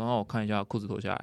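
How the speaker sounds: deadpan doctor, laughing through it; mock-casual physician with a chuckle; chill doctor. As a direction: nonchalant order, half laughing. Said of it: "超淡定，很chill".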